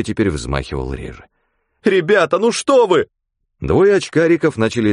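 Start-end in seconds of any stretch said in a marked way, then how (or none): 1.8-3.1 high, loud tearful plea; a girl close to crying; near tears plea. Acted. Girl begs the men, close to tears.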